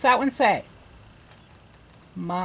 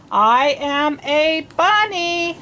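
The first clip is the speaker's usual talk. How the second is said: bunny voice; 3 semitones higher, slower than usual. Acted. Teacher voicing animals in story.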